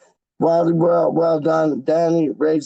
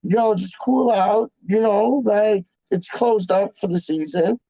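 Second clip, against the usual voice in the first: imitating Wally; 4 semitones higher than usual. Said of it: "And he's like".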